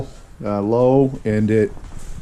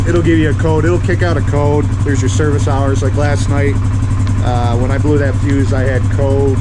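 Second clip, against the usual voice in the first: raised voice over the engine noise; talking over engine; 3 dB louder than usual. Real, not acted. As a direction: speak up over a running motor.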